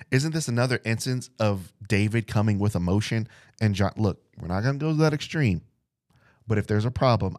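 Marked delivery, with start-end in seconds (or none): 4.4-5.6 hushed, quick whisper. Pretend. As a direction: lean in and whisper it fast. Whispered aside in Jonathan's voice.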